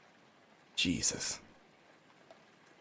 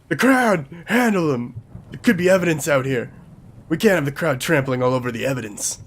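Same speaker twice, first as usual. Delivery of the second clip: loud order; 4 semitones higher, 4 dB louder than usual. Acted. Detective ordering over rain.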